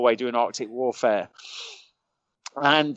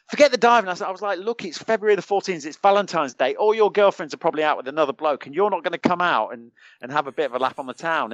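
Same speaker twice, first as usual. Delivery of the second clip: raised-pitch, insistent retold coaxing; lively re-enacted persuasion, pitched up; egging mates on; 4 semitones higher than usual. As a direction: goad reluctant mates into a night out. Retold pleading with reluctant mates.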